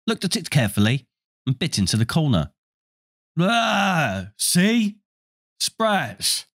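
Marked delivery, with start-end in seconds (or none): 3.4-6.5 disgusted cry. Acted. Ron bites a bad bean.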